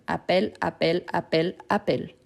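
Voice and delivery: appel repeated four times, the same open è each time; pronunciation drill. Shown as a demonstration. Teacher drilling the sound of appel. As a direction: chant appel evenly, identical each time. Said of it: "la prononciation, c'est la même".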